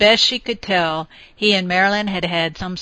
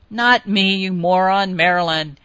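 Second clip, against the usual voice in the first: firm; 3 dB louder than usual. Acted. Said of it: "she reminded him firmly".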